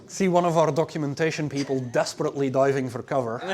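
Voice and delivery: chuckling through the words; amused, laughing while talking. Real, not acted. Joking about documentation people.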